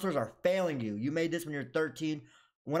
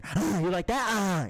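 mock scream; 6 semitones higher, 5 dB louder than usual. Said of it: "I'm about to scream".

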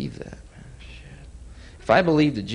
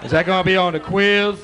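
raised, louder dopey student; dumb student voice; 5 semitones higher, 7 dB louder than usual. Retold or imitated. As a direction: ask like a clueless kid in class. Student voice, laughing.

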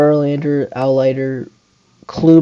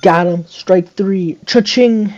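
hyped strikeout call; 5 semitones higher, 4 dB louder, slower than usual. Real, not acted. Strikeout celebration.

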